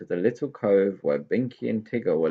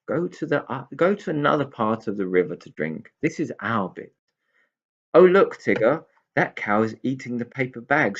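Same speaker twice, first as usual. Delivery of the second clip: louder, higher pixie telling off; scolding cows; 3 semitones higher, 5 dB louder than usual. Acted. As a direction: shoo the cows away.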